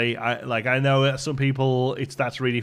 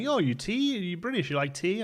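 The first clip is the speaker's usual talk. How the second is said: lightly voiced American asking about tea; a hint of a curious American; imitating an American; 8 semitones higher than usual. Retelling a stranger's questions, lightly voiced American. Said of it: "they're like".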